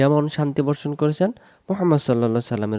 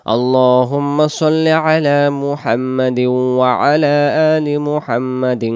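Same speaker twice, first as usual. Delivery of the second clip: full durood recitation; much slower than usual. Shown as a demonstration. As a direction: recite the whole durood slowly. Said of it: "এইভাবে পড়ে দেখাই দিতেছি". (পুরো দরুদ ধীরে তিলাওয়াত)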